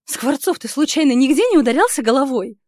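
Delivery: выше и громче, язвительно; насмешливо ткнуть его; нервная издёвка. Acted. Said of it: "Хмыкаю нервно". (героиня язвит над Скворцовым)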